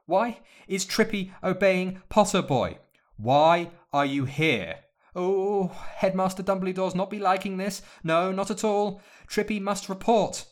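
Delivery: high, loud, flustered elf voice; squeaky house elf. A narrator's reading. House elf caught spying, panicked high stammer.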